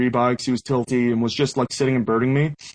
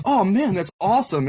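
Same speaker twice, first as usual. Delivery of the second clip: lightly acted starstruck fan, higher start; excited fan; 5 semitones higher than usual. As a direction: retell a fan's delighted greeting. Retold fan greets a player.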